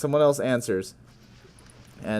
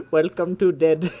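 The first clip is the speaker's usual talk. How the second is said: a hint of a menacing killer; lightly voiced crazed killer; 4 semitones higher than usual. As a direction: greet the victim with mock menace. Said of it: "being like".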